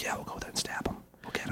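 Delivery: hushed plotting whisper, barely voiced; conspiratorial whisper. Retelling the voices he heard in the kitchen, whispered. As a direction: whisper like killers plotting in the next room. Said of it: "whispering, conspiring to kill me".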